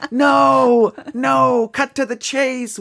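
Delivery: high-pitched comic outburst; mock exasperation. Real, not acted. Host despairs at the accent rabbit hole, high exasperated outburst. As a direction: cry out in laughing disbelief, pitched high.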